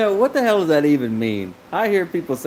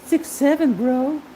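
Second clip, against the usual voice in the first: imitating kids' slang; 14 semitones higher, slower than usual. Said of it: "they're like".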